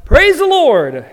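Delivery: loud, slow, high cry of praise; shouted praise. Acted. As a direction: call it out from the porch. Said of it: "stand on her front porch and shout".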